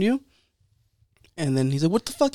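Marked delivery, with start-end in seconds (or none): 1.9-2.3 high-pitched retold exasperation; fed up. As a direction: play a baffled, irritated barber. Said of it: "fool got fed up with him".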